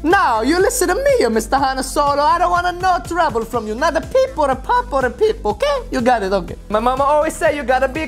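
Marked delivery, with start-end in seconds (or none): 0.0-5.8 lightly stern cartoon telling-off; mock-stern warning. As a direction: lay down the law to a toy. Warning the Han Solo toy.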